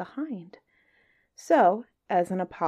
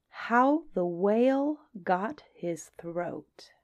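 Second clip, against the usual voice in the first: whispered title; much slower than usual. Acted.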